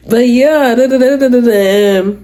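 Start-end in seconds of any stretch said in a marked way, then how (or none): none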